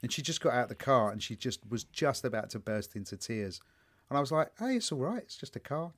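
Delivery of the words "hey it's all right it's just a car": so zen. Retold or imitated. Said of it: "And I was so zen".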